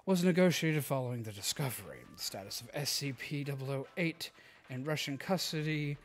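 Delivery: quiet, soft reading voice; soft ASMR reading. Acted. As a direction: read it softly for ASMR. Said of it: "Also, A S M R time is over".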